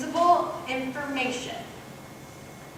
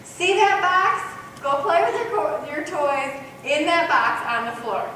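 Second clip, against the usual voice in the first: clear specific instruction. Shown as a demonstration. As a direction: spell out precisely where the toys go. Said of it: "She didn't say".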